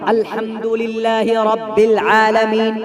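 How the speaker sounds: slow tarteel, each sound from its place; slow careful recitation. Shown as a demonstration. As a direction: recite slowly and precisely. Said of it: "मखारिज के साथ पढ़िए".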